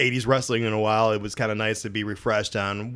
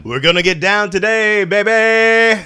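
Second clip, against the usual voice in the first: loud, high wrestling hype yell; hype shout; 9 semitones higher, 11 dB louder, slower than usual. Real, not acted. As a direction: pump up the crowd.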